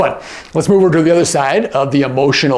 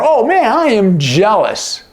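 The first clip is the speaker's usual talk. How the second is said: higher, sing-song jealous oh man; a touch higher, openly envious; envious groan; 6 semitones higher than usual. Acted. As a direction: play up the envy. Acting out jealousy example.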